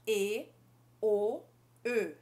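E, then O, then Ö, each held clearly apart; three French vowels. Shown as a demonstration. Teacher contrasting French vowels for students. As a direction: contrast E, O and Ö one by one. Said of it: "fiz três sons diferentes".

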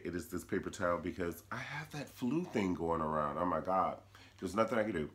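sick, wheezing through the flu; wheezy voice. Real, not acted. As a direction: talk through a wheezy chest. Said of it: "I'm wheezing".

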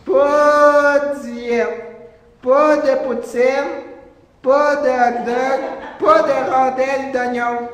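PAS hit on each item; stress on PAS. Acted. Emphatic list of refusals.

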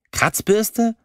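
high, incredulous question; indignant echo. Acted. Lilly, stung by the insult, repeats it in high disbelief. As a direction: throw the insult back, scandalized. Lilly outraged at being called prickly.

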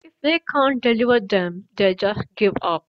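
loud, through a mouthful of nails; mouth full. A narrator's reading. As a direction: talk round nails held in the mouth. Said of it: "through a mouthful of nails".

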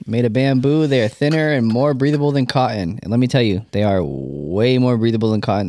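co-host continuing the sponsor pitch; ad read. Acted. Co-host endorsing socks to listeners, casual ad read.

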